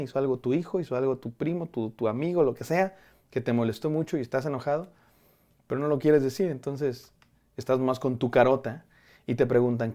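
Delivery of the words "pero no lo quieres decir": ordinary talk, nothing marked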